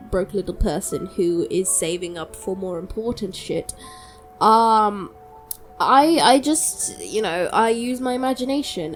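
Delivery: ordinary delivery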